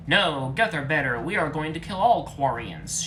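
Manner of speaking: loud shouted threat; angry shout. A narrator's reading. Legion shouts at Tally mid-argument, loud angry. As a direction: yell back over her. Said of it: "shouted Legion".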